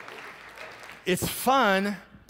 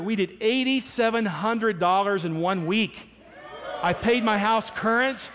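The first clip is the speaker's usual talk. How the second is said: excited; 4 semitones higher than usual. Retold or imitated. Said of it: "he was bouncing off the walls".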